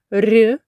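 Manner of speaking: soft, palatalized "р"; soft consonant. Shown as a demonstration. Teacher moving to the next sound, soft "р". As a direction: soften the lone "р". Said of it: "Після м'якого звука".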